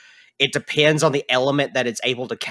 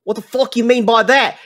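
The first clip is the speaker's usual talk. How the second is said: gruff NPC; 9 semitones higher, 5 dB louder than usual. Acted. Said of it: "he's like".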